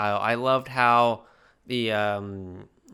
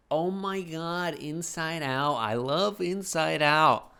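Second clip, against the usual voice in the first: gushing fan; 4 semitones higher, slower than usual. Retold or imitated. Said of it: "Everyone was like".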